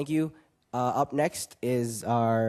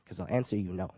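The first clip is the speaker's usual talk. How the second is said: slam poetry. Acted. Young poet closes his poem on poetry, slam poetry. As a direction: perform it as slam verse with weighty pauses.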